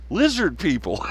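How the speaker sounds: flat mock deadpan "Lizard people"; deadpan air quotes. Vlogger mimics politician's deadpan air quotes, flatly. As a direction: say it dead straight, like air quotes. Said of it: "deadpan and do finger air quotes".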